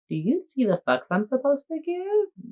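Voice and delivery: high, soft cartoon-explorer voice; a hint of the Dora cartoon asking the audience; lightly voiced Dora. Mock Dora asking viewers to spot something.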